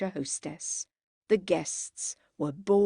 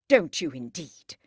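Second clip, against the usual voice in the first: low, louder sarcastic retort; biting; 4 semitones lower, 6 dB louder than usual. A narrator's reading. Henry accuses Margaret of acting, biting. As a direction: hit it hard and low, cuttingly. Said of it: "he said bitingly".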